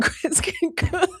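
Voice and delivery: loud, high laughing speech. Real, not acted. Host defending her friends' cooking to viewers, laughing loudly. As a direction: break into a real laugh mid-sentence, drawing it out.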